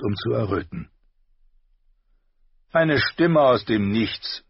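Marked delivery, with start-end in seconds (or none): 2.7-4.4 mock searching. A narrator's reading. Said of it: "sagte Sandor".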